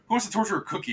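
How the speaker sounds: high, loud villain invite; mad scientist. Retold or imitated. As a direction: gleefully call out the evil plan. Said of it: "and you go".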